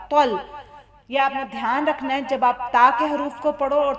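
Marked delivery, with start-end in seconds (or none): 0.1-0.4 "तल" full and dark, not a thin ता; heavy "tal". Shown as a demonstration. Teacher separates the letters twa and ta, heavy "तल". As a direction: say "तल" with a thick, heavy t. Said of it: "मोटा करके पढ़ना".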